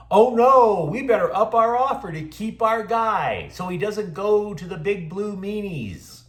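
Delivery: high-pitched mock alarm; mock panic. Rival team panicking over losing their guy, mock panic.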